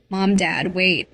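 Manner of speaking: a small, scared call, not quite whiny. Acted. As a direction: call out timidly after parents. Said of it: "I called, voice small".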